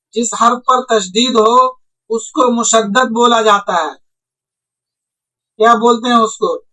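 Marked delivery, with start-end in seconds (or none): 0.1-3.9 slow, deliberate reading. Shown as a demonstration. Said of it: "تو دیکھیے".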